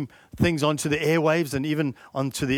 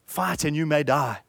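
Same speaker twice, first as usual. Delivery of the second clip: stirring Wallace speech; 3 semitones higher than usual. Acted. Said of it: "Wallace says".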